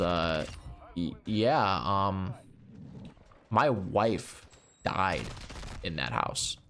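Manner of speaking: a hint of a hesitant, sad old man; hesitant, trailing low; halting widower. Widower on the phone admitting his wife died there, halting and low.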